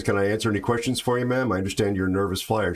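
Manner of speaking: fast, businesslike pilot voice; brisk captain. Retold or imitated. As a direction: rattle it off like a busy captain. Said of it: "he says".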